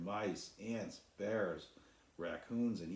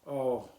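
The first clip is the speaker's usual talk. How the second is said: sigh; 6 semitones higher, 10 dB louder than usual. A narrator's reading.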